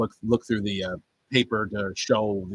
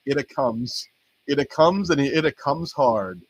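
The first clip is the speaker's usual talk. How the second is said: Casanova English; 3 semitones higher, slower than usual. Retold or imitated. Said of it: "Hard Casanova English".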